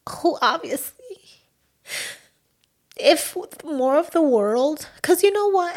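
tearful, voice breaking up; choked up with emotion; crying. Real, not acted. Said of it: "You're crying, Patricia".

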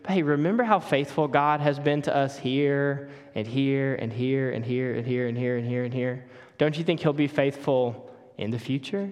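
understated, steady and soothing; calmly acted comforting spouse; calm reassurance. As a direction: talk a spiralling spouse down gently. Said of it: "will just really calmly say".

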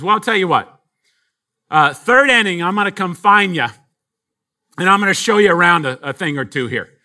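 put-on old lady in a lightly done Boston accent; a hint of Boston old lady, confident. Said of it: "I'm invoking my Boston".

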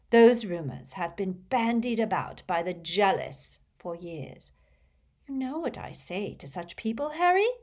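high, loud, theatrical indignation; rather hysterical. A narrator's reading. Trelawney defending her gift to Harry, hysterically indignant. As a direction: rant with swelling wounded pride. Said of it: "Her voice rose rather hysterically".

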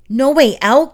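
startled disbelief; alarmed echo. A narrator's reading. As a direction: Glenn jumps up in alarm, high and startled. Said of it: "Glenn said, jumping up".

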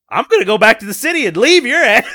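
joke-threaten to walk out while laughing; hammed-up huff, laughing at his own line; laughing mock threat. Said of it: "And I was like".

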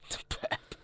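words burped out low; talking while burping. Pretend. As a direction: burp through the words. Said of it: "what almost sounds like speech".

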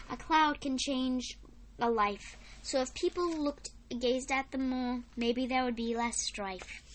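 put-on measured recital of a children's poem; poem reading. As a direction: read it out in phrases, pausing at line ends. Reads a poem aloud.

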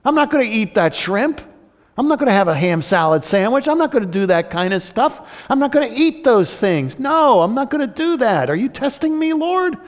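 lightly acted protest, rising high at the end; Peter. Good Jewish boy refusing God's order to eat, mild high-pitched protest. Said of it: "Peter, the good Jewish boy, is saying".

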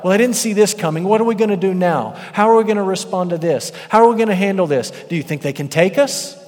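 hammed-up worried strategist; mock panicked planner. Preacher mocking a panicking God.

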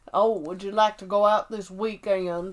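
put-on courtly invitation in a Southern accent; imitated Southern accent; mock Southern accent. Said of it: "in his accent, he asks her out".

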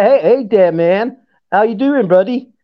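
lightly put-on American buddy greeting; practised American "man" and "buddy"; attempted American accent. Shown as a demonstration. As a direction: imitate a casual American accent. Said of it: "you gotta do the man".

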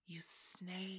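soft, cold delivery of an insult; quiet contempt. Retold or imitated. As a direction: hiss it quietly with disdain. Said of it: "the perfect line delivery of".

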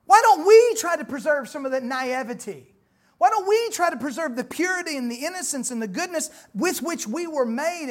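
loud, ringing pulpit plea; preaching at full force. Acted. Preacher urging the congregation to keep their innocence, loud. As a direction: press the question home to the congregation.

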